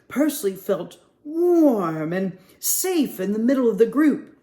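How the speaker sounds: put-on lively storybook read-aloud for kids; reading to children. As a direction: read it like story time at the library. Librarian reads picture book aloud.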